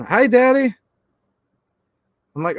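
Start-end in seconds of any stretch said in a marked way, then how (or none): 0.0-0.8 put-on child's voice. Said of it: "the eight-year-old gets on the phone".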